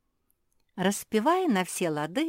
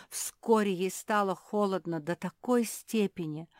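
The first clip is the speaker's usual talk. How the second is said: usual speaking voice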